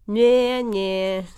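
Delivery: put-on loud, high childish jeer; taunting nyeh-nyeh. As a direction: tease with a sing-song nyeh. Frog sticks tongue out, taunting.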